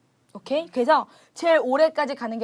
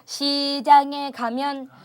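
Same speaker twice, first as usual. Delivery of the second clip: slow demo; slower than usual. Shown as a demonstration. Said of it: "예를 들자면 이런 거죠".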